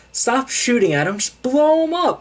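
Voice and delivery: building to a high, loud shout; mock yelled order. Commander ordering troops to fire, building mock shout. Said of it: "the commander's just like".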